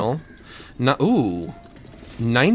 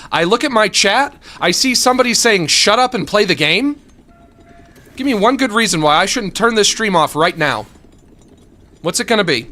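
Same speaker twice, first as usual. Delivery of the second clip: mock angry rant; 4 semitones higher, 3 dB louder than usual.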